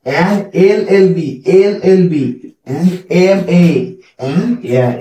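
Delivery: an LLB, an MA spelled out slowly; slow example list. Shown as a demonstration. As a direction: give examples one by one. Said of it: "অ্যান আওয়ার".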